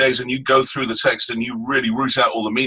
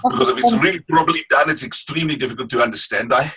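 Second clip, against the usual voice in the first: higher-pitched Afrikaans accent demo; 4 semitones higher, faster than usual. Shown as a demonstration. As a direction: show how a thick Afrikaans accent sounds. Shows Afrikaans accent just named.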